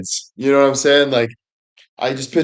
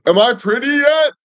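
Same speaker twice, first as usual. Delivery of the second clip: put-on very high, whiny girly voice; vain teen girl; 12 semitones higher than usual. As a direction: ask it like a needy teenage girl.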